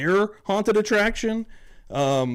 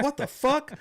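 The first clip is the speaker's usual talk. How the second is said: high-pitched baffled outcry; laughing imitation of someone flabbergasted; mock disbelief; 12 semitones higher, slower than usual. Russ baffled as pizza turns up, high mock disbelief.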